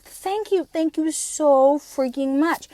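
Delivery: gushing thanks. Retold or imitated. Overwhelmed thanks to stranger.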